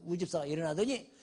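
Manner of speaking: usual speaking voice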